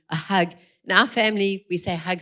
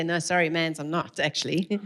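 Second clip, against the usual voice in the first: sheepish admission. Pretend. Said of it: "you can't really say".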